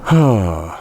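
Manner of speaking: long exhaled sigh; exasperated sigh; weary sigh. Real, not acted. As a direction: let out a heavy breath. Weary pause amid the rant.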